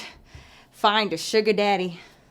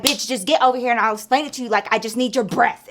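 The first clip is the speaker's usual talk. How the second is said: quick, slightly raised impatient plea; mild retold frustration; 2 semitones higher, 4 dB louder than usual. Friend begging for help with her car, mildly frustrated. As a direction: imitate an exasperated friend, hurrying the words. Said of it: "getting frustrated".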